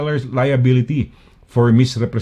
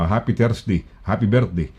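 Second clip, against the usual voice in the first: put-on Scottish accent; 4 semitones lower, 3 dB quieter than usual. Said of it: "nasa Scotland tayo, may mga may edad na".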